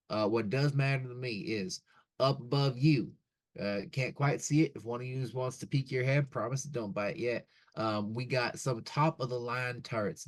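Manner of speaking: casual, firm bouncer laying down rules; gruff doorman. Acted. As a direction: warn the guests, friendly but with a threat. Doorman gives the house rules.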